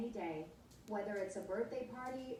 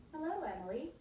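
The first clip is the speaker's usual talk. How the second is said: higher, squeaky helium voice; 7 semitones higher than usual. A narrator's reading. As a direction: talk high like you inhaled helium. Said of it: "her voice suddenly high-pitched and squeaky".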